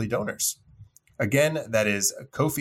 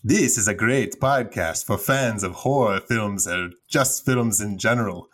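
Transylvanian accent. Shown as a demonstration. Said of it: "So I will start with Transylvania".

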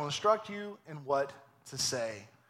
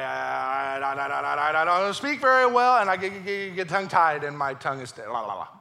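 mock tongue-tied stammer; 6 dB louder than usual. Pastor voicing tongue-tied Moses.

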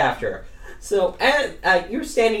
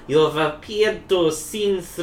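attempted German accent for a creature; Werner Herzog. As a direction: feel out a German-accented character voice. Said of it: "do Werner Herzog".

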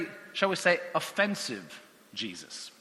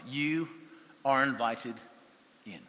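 tender invitation; 3 semitones lower, 5 dB quieter than usual. Acted. Preacher voicing Jesus to the ultimate outsider, tender. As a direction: welcome the outcast gently.

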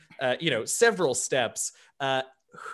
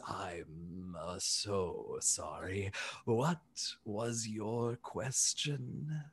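low, soft and very slow, groping for the right word; a polite elephant checking he got it right; hesitant gentle elephant; 5 semitones lower, 9 dB quieter, much slower than usual. Acted. Bertrand introducing the group as co-workers, low, soft and hesitant.

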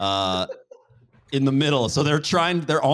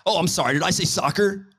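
higher-pitched mock indignation; mock apology; 4 semitones higher than usual. Host mocking himself for saying soccer, mock indignant. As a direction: feign outrage at a slip of the tongue.

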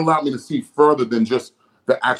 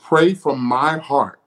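voice of God; much slower than usual. Retold or imitated. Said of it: "This is the Lord speaking".

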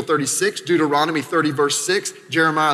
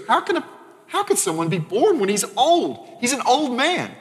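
put-on high, disbelieving old-man question; incredulous Nicodemus; 6 semitones higher than usual. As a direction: pitch it up high as a baffled Nicodemus. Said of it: "Nicodemus goes".

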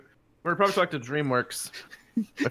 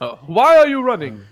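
movie quote voice; 8 semitones higher, 8 dB louder than usual. Retold or imitated. Quoting a movie line.

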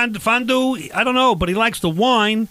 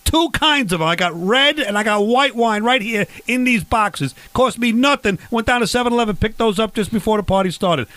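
raised pitch, key words stretched out; mildly exasperated, showing off a bigger haul; indignant boasting; 3 semitones higher than usual. Acted. Barbecue host scolding his guest over one bottle, indignant.

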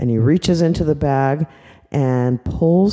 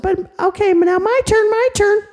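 put-on high insistent child voice; eager little girl. Little girl insisting it is her turn, high pitched and eager. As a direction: demand your turn like a small kid. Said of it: "The little girl said".

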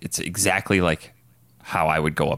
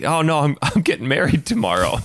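breezy high mimicry; lightly voiced offhand Tom; high casual voice; 10 semitones higher, 4 dB louder than usual.

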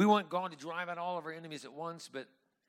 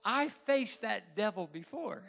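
laughing; 7 semitones higher, 7 dB louder, slower than usual. Real, not acted. Laughing punchline to congregation.

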